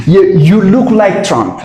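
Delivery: slow, each word laid out for students; slow teaching repeat. Shown as a demonstration. Teacher models the sentence slowly for the students. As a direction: spell out You, you look like Trump word by word. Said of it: "slow teaching repeat".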